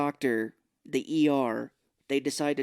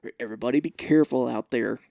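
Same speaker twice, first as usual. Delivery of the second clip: Mel Gibson; 3 dB louder than usual. Retold or imitated. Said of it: "It's slipping".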